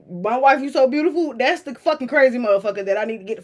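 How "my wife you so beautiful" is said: mock sweet talk.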